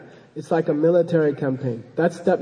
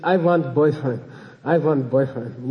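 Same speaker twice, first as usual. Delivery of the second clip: lightly voiced Bulgarian accent, lower on the repeat; 3 semitones lower than usual. Bulgarian lady tells her teacher what she wants, imitated Bulgarian accent. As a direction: mimic a Bulgarian woman's English. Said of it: "Her name's Iskra. She said".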